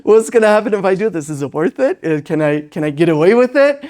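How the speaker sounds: put-on playful child voice, quick and laughing; cheeky child sizing up the parent, laughing; child testing limits. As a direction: voice the kid daring you, with a laugh. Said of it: "and they're like".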